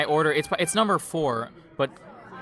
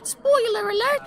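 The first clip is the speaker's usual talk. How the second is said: much higher, slow mock British voice; mock British accent; slower than usual. Podcaster doing the villain's lines in mock British. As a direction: ham up a cockney villain's line. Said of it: "me doing his lines".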